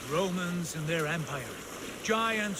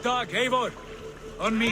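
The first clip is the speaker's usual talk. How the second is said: raised, urgent call to companions; rallying call; 5 semitones higher, 4 dB louder than usual. Acted. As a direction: call your fighters to your side, high and loud. Leader calls companions to him.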